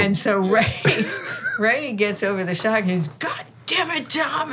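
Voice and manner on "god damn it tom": high-pitched exasperated outburst; retold indignant yelp; mock outraged cry. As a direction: act out a shocked man cursing his boss. Acts out Ray after the shock.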